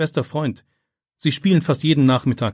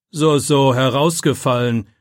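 louder, disbelieving teacher's rebuke; loud scolding; 2 semitones higher, 6 dB louder, slower than usual. A narrator's reading. Teacher doubts the pupil's excuse, scolding loudly. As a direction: scold loudly, not believing a word. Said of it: "schimpft Herr Wagner noch lauter".

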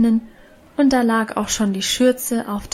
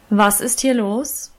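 stern deep voice; slower than usual. A narrator's reading. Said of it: "eine laute, aber noch tiefere Stimme".

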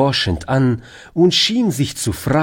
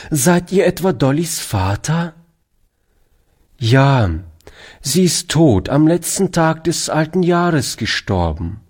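put-on a touch higher, eager young boy; boy Toni explaining to the stranger, higher pitched; lightly voiced boy; 4 semitones higher than usual. Boy telling soldier about Dolly, lightly higher boy voice.

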